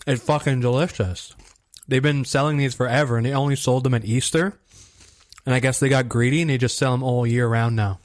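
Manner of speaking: talking while crunching candy; mouth full. Real, not acted. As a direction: chew and talk through a mouthful. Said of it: "doesn't sound like you're eating that... munching on some chips".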